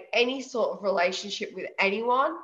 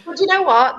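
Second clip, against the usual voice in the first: loud lead-in; 9 semitones higher, 10 dB louder than usual. Real, not acted.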